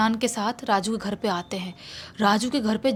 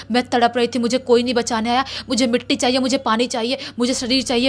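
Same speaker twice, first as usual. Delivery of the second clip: put-on girl spirit voice; 4 dB louder, faster than usual. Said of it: "बच्ची की आवाज़ में बोल रहा है".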